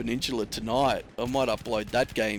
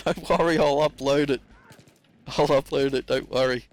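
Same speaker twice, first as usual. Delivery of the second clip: excited reassurance; 4 semitones higher, 6 dB louder than usual. Retold or imitated. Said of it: "He's going".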